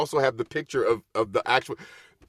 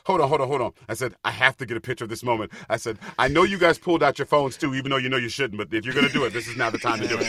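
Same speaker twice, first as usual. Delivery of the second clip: louder, higher retold announcement; calling out; 3 semitones higher, 6 dB louder, faster than usual. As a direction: halt the crowd with a raised voice. Halts show to address audience for selfie.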